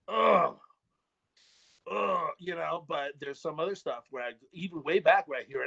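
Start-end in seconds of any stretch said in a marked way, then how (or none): 0.1-2.3 acted groan. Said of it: "I'm just like".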